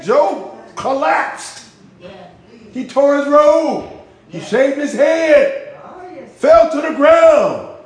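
high, slow, loud preaching that builds to a shout; fervent preaching. Real, not acted. Preacher telling the congregation of Job's grief, rising shout.

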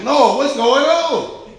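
slow, high, loud plea to the Lord; a single drawn-out complaint to God; exasperated prayer. Retold or imitated. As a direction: cry out to heaven in mock frustration.

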